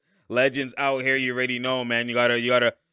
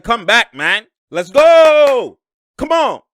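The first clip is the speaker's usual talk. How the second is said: louder, higher mock yell at teammates; imitating angry Westbrook; 7 semitones higher, 11 dB louder, much slower than usual. Voicing Westbrook yelling at teammates to get back. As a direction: bark him back on defense. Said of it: "He's like".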